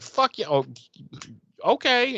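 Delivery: hammed-up angry teen snapping at mom; mock outburst. Buffy snaps at mom.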